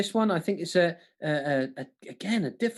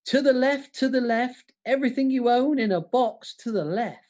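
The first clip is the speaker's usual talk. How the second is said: punchy lyric read; 3 semitones higher than usual. Shown as a demonstration. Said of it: "Here we go".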